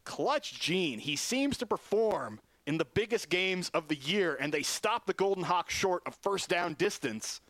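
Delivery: brisk, lifted broadcast call of the game; radio football commentator calling the action; live play-by-play. Acted. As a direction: keep the play-by-play energy up for the listeners.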